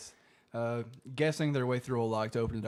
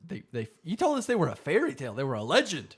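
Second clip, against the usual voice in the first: louder, quick, stammering mock outrage; incredulous protest; 2 semitones higher, 6 dB louder, faster than usual. Dean protests to John about vampires, mock indignant. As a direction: retell it as indignant disbelief.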